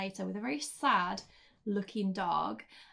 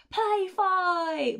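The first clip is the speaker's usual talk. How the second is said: high, eager voice for the dog; dog's voice; 10 semitones higher, 6 dB louder than usual. Retold or imitated. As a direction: voice the dog begging to play. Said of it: "Peggy is like".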